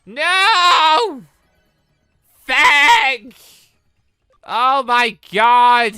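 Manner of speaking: loud high yells of despair, drawn out at the end; anguished yells. Real, not acted. Player watching his Digimon fall, loud anguished yells. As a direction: cry out in frustration. Things go badly again.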